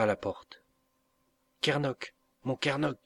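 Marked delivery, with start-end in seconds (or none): 1.6-3.0 gentle, higher call of his name; sweet voice at the door calling Kernoc; soft fresh voice. Acted. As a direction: call him softly and sweetly from outside. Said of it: "dit une voix douce et fraîche".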